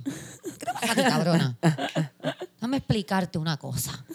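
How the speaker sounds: a lightly voiced scolding father, laughing; mock-stern dad talking down to his daughter; imitating her dad. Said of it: "estaba imitando a mi papá".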